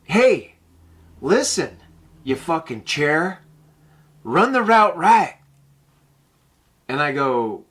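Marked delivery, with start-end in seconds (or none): 0.0-5.4 mock yell at a teammate. Tommy yelling at player, retold.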